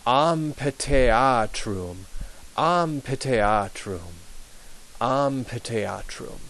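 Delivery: very slow amphitheatrum, p and t plain; slow model word. Shown as a demonstration. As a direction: take amphitheatrum syllable by syllable. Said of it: "the P H is p and the T H is t".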